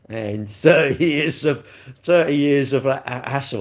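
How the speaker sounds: reading it while laughing, slow; words breaking into a laugh; laughing through it. Real, not acted. Reading dress ad aloud.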